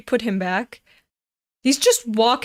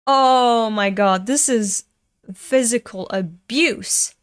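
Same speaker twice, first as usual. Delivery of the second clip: loud, drawn-out "oh", then slow disbelief; appalled outcry; 4 dB louder than usual. Real, not acted. Viewer reacting to a staff slap as physical abuse, appalled outcry. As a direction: stretch it out, aghast.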